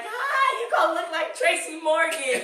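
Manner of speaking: busting out laughing mid-quote; laughing outburst. Retold or imitated. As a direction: blurt it out through laughter. Retelling own laughing outburst.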